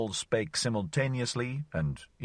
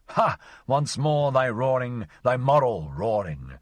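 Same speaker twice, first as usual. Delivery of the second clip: mock rallying cry; 3 semitones higher, 4 dB louder than usual. Mock-heroic call to moral honor.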